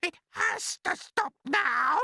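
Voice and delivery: very high, loud, slow yell. A narrator's reading. Aunt yelling at the swelling peach, high and loud. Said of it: "Aunt Spiker yelled".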